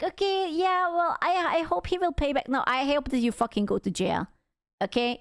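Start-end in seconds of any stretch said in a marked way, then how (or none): 0.0-2.5 mild hopefulness. Retold or imitated. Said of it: "I was like".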